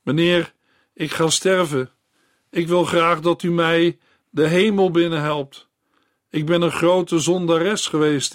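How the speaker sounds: dying woman begging the doctor. Acted. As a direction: confess with desperate urgency.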